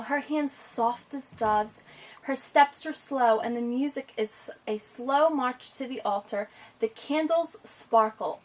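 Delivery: expressive read-aloud, slow on the images; story reading. Acted. Teacher reading a wedding picture book aloud, expressive. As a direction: read to the child, savouring each picture.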